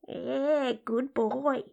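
soft, lewd purr of approval; hushed, teasing inner voice; brazen talking-vagina character. Acted. Inner voice blurts it out.

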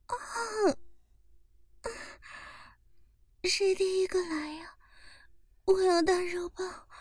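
high, breathy-sounding moans and pleas; soft, high pleading moans; moaning. Acted. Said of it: "对着周围的员工说道". (高声娇喘呻吟)

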